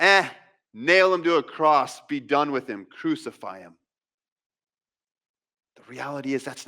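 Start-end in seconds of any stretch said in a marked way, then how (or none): 0.0-3.7 mock crowd giving up on him, dropping away; acted dismissive turnaround. Preacher voices the crowd done with Jesus, dismissive. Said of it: "they went from".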